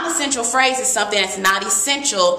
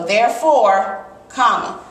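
therefore, then a clear pause; pause after therefore; 3 dB louder than usual. Shown as a demonstration. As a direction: stop briefly after therefore. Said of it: "when I say it, therefore, I pause".

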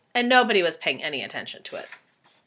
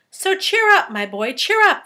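high, louder hearty cheer; jolly centipede; 11 semitones higher, 7 dB louder than usual. Acted. Centipede urging frightened James to cheer up, hearty.

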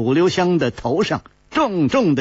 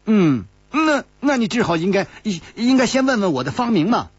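lightly voiced playful girl, a bit higher; coy young girl; 5 semitones higher, faster than usual. A narrator's reading. Narrator voicing Zhang Jiejie teasing Chu Liuxiang, lightly coy.

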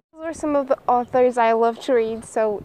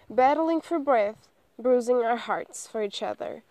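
poem reading. Acted. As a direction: recite it line by line, letting phrases settle. Reads a poem aloud.

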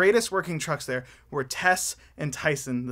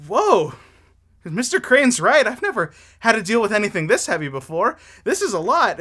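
higher, louder amazed whoa; surprised truck; 3 semitones higher, 5 dB louder than usual. Acted. Tess amazed at the heavy cargo, surprised and higher. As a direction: marvel at the weight.

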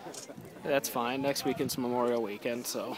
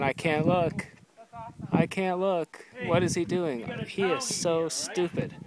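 mock-alarmed impression of an absent friend; Ben; 5 semitones higher, 4 dB louder than usual. Teasing a friend who stayed behind, imitating him, lightly put-on. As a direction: lightly mimic a squeamish friend, pitched up and louder. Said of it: "Ben would be turned away going".

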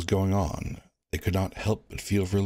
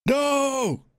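much higher, louder cry of no; shout; 4 dB louder than usual. Acted. Onlooker shouting at the wardens, loud. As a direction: stop them with one word. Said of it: "came a shout".

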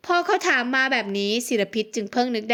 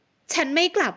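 higher, sharp refusal; snapping shout; 5 semitones higher, slower than usual. A narrator's reading. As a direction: bark the refusal back at him. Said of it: "หญิงสาวตวาด".

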